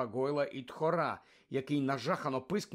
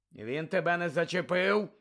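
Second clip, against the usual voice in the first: growled; 3 semitones higher, 3 dB louder than usual. Acted. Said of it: "прогарчав Муді".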